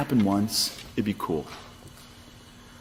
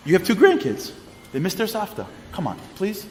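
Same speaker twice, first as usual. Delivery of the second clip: pleading daughter; 6 semitones higher than usual. Retold or imitated. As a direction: coax her mother to come. Daughter begging her mother to come.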